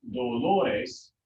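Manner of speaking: "Dolores" drawn out as do-LO-res; stress on second-to-last syllable. Shown as a demonstration. Teacher showing the plural keeps its accent, stress on LO. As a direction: put the weight on LO in "Dolores". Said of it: "it's the second to last".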